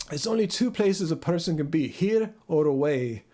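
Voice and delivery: imperfect Scottish imitation; Scottish accent. Shown as a demonstration. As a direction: demonstrate a Scottish lilt, drawing out the ending. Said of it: "Wanna see my accent again".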